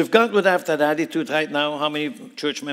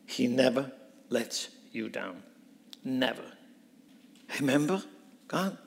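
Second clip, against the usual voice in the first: soft reminder; 5 dB quieter than usual. Acted. A believer softly reminds God: hushed. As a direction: drop to a hush and lean in. Quiet reminder of God's word.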